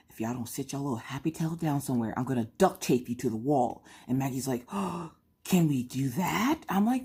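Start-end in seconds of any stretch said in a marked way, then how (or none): 0.1-3.8 gangster voice. Retold or imitated. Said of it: "I put it on mute". 4.7-6.6 put-on slow, drawn-out wide-eyed kid question; eager child. Voicing excited daughter's hopeful question.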